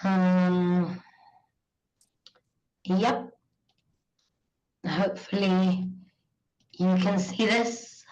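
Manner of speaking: hoarse from a cold; croaky, still recovering from a cold. Real, not acted. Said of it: "I apologize about my very croaky voice".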